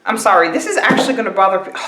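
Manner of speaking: talking with gum in mouth; chewing gum. Real, not acted. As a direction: chew gum as you speak. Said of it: "I have gum in".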